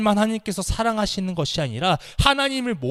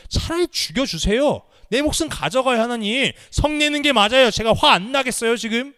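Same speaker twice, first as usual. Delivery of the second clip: angry protest; 5 semitones higher, 3 dB louder than usual. Acted. Jonah angrily argues with God, demanding death. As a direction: hurl it at God, fed up. 하나님한테 따지는 것입니다.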